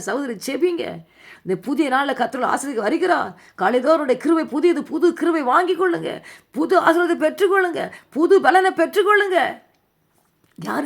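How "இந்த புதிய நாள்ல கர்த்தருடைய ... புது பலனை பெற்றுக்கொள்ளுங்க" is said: rising steadily to a high-pitched climax; building exhortation. Real, not acted. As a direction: build from normal pitch to a ringing cry. Preacher builds to a blessing climax.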